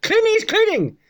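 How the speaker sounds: put-on high, insistent Asian-accented voice; Asian man's accent. Garage owner sending customer outside, high imitated Asian accent. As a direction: mimic the little Asian owner sending someone away. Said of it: "Like this, right?".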